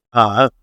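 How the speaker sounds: level, held "Uh." at one pitch; flat first tone. Shown as a demonstration. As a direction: sustain "Uh." evenly, no rise or fall. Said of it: "The first tone".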